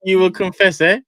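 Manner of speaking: imitating the clip's ominous confess voice; mock menacing accent. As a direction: lean in like a Game of Thrones villain. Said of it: "With that accent, oh I love it".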